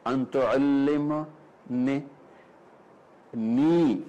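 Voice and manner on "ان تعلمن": تعلمن stretched very slowly; dwelt on تعلمن. Shown as a demonstration. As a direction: draw out تعلمن humbly. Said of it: "تعلمن نے اپنے آپ کو فنا کر دیا". (تعلمن کو کھینچ کر)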